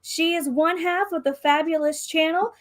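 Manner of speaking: lightly rounded pageant host voice. Acted. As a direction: introduce like a pageant emcee. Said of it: "in her best M C voice".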